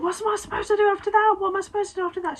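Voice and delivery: high-pitched frantic questioning; imitated panicky squeal, repeated urgently; retold panic. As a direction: re-enact panicking on the phone, voice shooting up. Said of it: "I just start panicking instantly".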